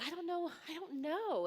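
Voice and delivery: high-pitched mock distress; lightly imitated tearful wail; imitating crying. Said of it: "as she's crying".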